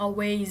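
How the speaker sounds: "always" slowed, its final s voiced as z; vibration carried on. Shown as a demonstration. Teacher summing up the rule, "always" ending in voiced z. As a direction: keep "always" vibrating right through to a z. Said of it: "สั่นแล้วสั่นต่อเลยนะ".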